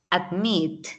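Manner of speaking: ad-MIT, weight on the end; stress on final syllable. Shown as a demonstration. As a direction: admit with its second syllable longer. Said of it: "La acentuación está".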